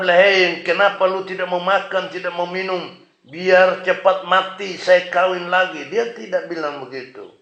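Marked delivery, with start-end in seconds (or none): 0.2-5.9 mildly gruff, casual scolding; mock angry husband. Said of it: "Elkana tidak marah". (pura-pura marah ringan)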